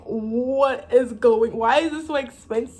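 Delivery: retold outburst of disbelief; shocked disbelief. Reacting to test prices back home, mock shocked disbelief.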